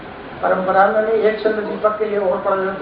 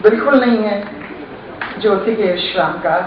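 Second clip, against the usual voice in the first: poem recitation; 2 semitones lower than usual. Acted. Poet warns against quitting the fight with darkness, measured recitation. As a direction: declaim with weighty pauses between phrases.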